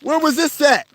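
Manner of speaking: stunned fan asking the player; surprised. Retold or imitated. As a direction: ask it half-laughing in disbelief. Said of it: "I said".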